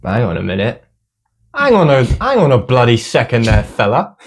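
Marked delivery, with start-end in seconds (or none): 1.5-4.2 loud, high protest; indignant shout. Real, not acted. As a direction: protest loudly, outraged. Indignant correction.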